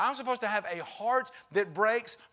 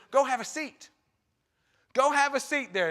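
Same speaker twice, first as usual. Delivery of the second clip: higher, louder call across a crowd; 6 semitones higher, 5 dB louder than usual. Retold or imitated. Jesus calling the crowd to sit on grass. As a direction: call out to a big crowd outdoors.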